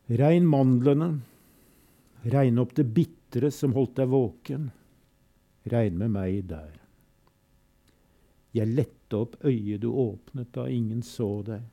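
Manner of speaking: measured, grave recital with refrains; solemn poem reading. Acted. Reading Todesfuge aloud to listeners, grave and measured. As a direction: let the fugue's repetitions toll. Reads a further Celan poem.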